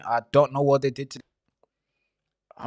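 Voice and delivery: slow, whispered dread; hushed whisper. Real, not acted. Streamer whispering slowly about what happened to the child.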